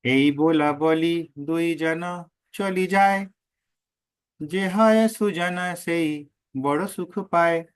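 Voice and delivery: slow, measured chanting of the Bengali verse; verse recitation. Acted. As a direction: intone each line slowly like scripture. (धीमा, लयबद्ध पद पाठ)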